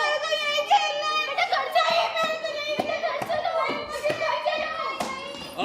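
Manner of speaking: put-on high, whining child begging to stay; whiny crying child. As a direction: wail like a sulking kid. (रोता हुआ बच्चा, ज़िद करते हुए)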